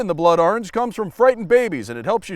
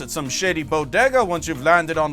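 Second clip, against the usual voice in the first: announcer narrator; 3 semitones higher than usual. Acted. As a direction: read the sponsor pitch like a trailer announcer. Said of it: "I'm a narrator".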